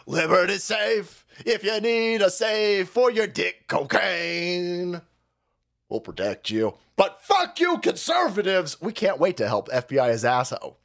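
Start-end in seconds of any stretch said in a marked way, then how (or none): 0.0-6.8 slow, drawn-out parody ad voice; hammed-up sponsor read; mock promo read. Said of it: "I should do a promo read". 7.0-8.8 sudden high yelled insult; mock shout. Parody ad turns on conservatives.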